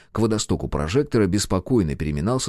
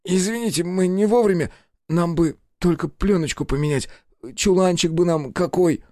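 frightened apology; 9 semitones higher than usual. A narrator's reading. Terrified assistant apologizing to bandits.

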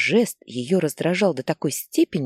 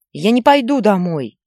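loud, higher defiant yell; a boy refusing at the top of his voice; defiant child's shout; 5 semitones higher, 8 dB louder than usual. Acted. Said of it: "крикнул он". (мальчик громко и упрямо кричит матери)

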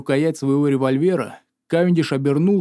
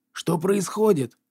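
yelling; 4 semitones higher, slower than usual. A narrator's reading. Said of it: "завопил Кавендиш".

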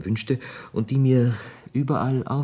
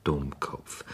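teasing chuckle; 6 semitones lower, 5 dB quieter, slower than usual. Acted. Teasing Gigi about dentist.

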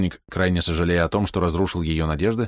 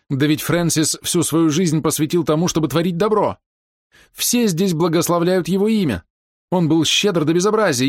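indignant defence; 10 semitones higher, 4 dB louder than usual. A narrator's reading. Sister defends brother, rising indignation.

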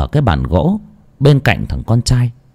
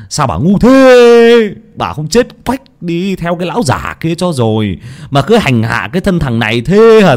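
roaring. Acted. Son roaring at his old mother, hammed-up fury. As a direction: wail and roar in exasperation. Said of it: "gầm lên".

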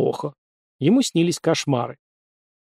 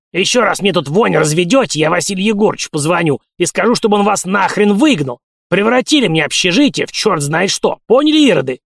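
put-on old man shouting; 4 semitones higher, 3 dB louder than usual. A narrator's reading. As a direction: bark a command like an old caretaker. Caretaker threatening the cultists. (крик старика)

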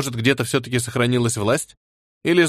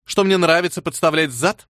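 cold voice; 5 semitones higher than usual. Acted. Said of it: "Голос Вали похолодел".

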